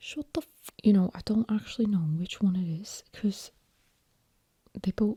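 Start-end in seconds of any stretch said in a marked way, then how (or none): 0.0-0.7 put-on whispered, hushed Liverpool or Birmingham accent. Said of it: "So this is Liverpool or Birmingham".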